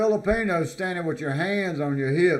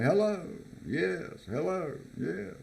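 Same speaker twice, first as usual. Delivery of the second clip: imitating Filipino greeting; 4 semitones higher, 6 dB quieter, slower than usual. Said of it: "you say".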